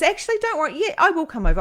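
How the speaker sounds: high, loud imitation of a friend; friend's eager voice. Friend on the phone deciding to come over, imitated high eager voice. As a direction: chirp the change of mind, pitched high.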